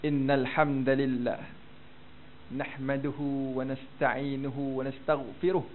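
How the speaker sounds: slow, soft recitation of the sheikh's Arabic; soft Arabic dal sounds, slow and unhurried. Retold or imitated. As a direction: recite it gently like the sheikh in his lecture. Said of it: "sebutan dia cukup lembut".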